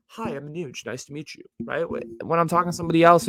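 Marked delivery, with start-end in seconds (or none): 0.1-1.4 soft, polite introduction in a code-switched white voice. Shown as a demonstration. Introducing himself to a white person, in his white voice. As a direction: drop the volume for a polite, put-on white voice. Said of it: "I talk to a white person, my voice goes".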